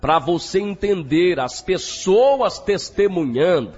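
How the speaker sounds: emphatic preacher's campaign promo; radio church announcer. Acted. Announcer inviting listeners to Friday's campaign, emphatic radio preacher. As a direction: announce it with solemn, punchy emphasis.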